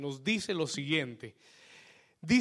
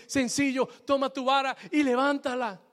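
God's calm command; 9 semitones higher, 7 dB louder than usual. Retold or imitated. God answering Moses.

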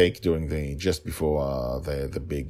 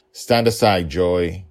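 firm command; 7 dB louder, slower than usual. Acted. Father orders daughter in battle.

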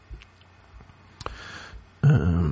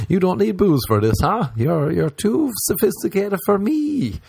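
mock admiring; 10 semitones higher than usual. Mocking sober aggressive girl.

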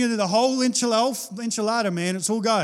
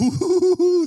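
mock surprise; 9 semitones higher, 6 dB louder than usual. First-century listener mocking.

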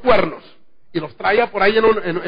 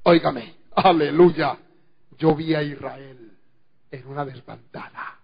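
low, soft and grave, softer; serious, grave warning; 4 semitones lower, 5 dB quieter than usual. Retold or imitated. Micaiah warning the king of defeat, grave and hushed. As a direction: speak with solemn gravity. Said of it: "con seriedad y con responsabilidad".

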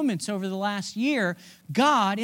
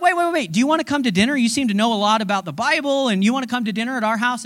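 eager plea; faster than usual. Retold or imitated. Disciples eagerly stop Jesus.

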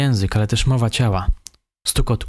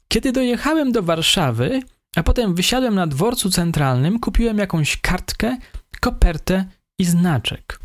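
higher suspect voice, engaged and lively; eager telling; 9 semitones higher than usual. A narrator's reading. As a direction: tell it with real eagerness, higher. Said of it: "ze znacznym zaangażowaniem".

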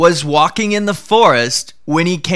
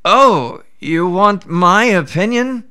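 a sly jackal feigning surprise; jackal surprised; 5 semitones higher than usual. Acted. Jackal answers the Brahmin, higher and feigning surprise. Jackal voiced in folk tale.

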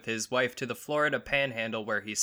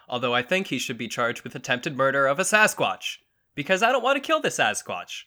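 loud, high-pitched indignant protest; mock outrage; 4 semitones higher, 6 dB louder than usual. Comic host defending the Sasquatch, mock outrage. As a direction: protest loudly, voice leaping way up.

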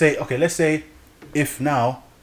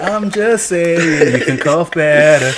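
trying not to laugh; 3 semitones higher, 5 dB louder, much slower than usual. Real, not acted. Teasing while laughing.

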